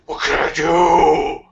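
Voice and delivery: slow, strained crying shout as Sonic; anguished Sonic cry. Acted. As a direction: wail it through gritted teeth. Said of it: "The Sonic voice makes me lightheaded".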